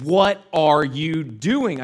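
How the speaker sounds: loud, slow word-by-word question; exasperated father. Retold or imitated. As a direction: imitate a dad at his wits' end.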